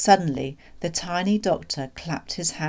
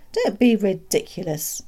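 louder, mildly scoffing protest; dismissive disbelief; 3 semitones higher, 5 dB louder than usual. Acted. Doctor rejecting the father's claim, dismissive. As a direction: dismiss the idea as absurd.

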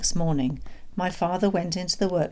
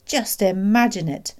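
higher, louder, mildly gleeful; happy; 4 semitones higher, 6 dB louder than usual. A narrator's reading. Father delighting in the hidden pheasants, happy. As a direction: invite them to relish it. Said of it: "my father said happily".

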